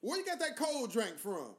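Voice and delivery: slow, lightly imitated local woman; New Orleans woman. New Orleans woman asks about his Coke, lightly imitated slow question. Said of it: "woman from New Orleans".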